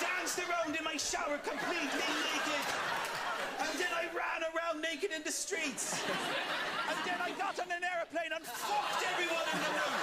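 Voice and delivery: put-on a cheeky, overdone Irish accent; bad Irish accent. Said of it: "you're doing a bad Irish accent".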